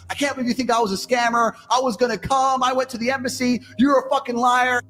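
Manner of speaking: high, shouting fake outrage; a hammed-up scammer girl crying liar; mock indignant girlfriend. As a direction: play the wronged girl, voice high and rising to a yell. Acted quarrel, girl's indignant reply.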